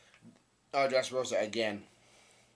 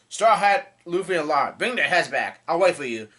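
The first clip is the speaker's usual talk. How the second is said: angry challenge; 3 semitones higher, 6 dB louder than usual. Retold or imitated. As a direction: bellow the names, then hold the threat firm. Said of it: "He gets angry and says".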